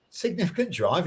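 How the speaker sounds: mock disbelief from the speaker; incredulous echo. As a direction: echo it back as if it's absurd. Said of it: "he, Doug said".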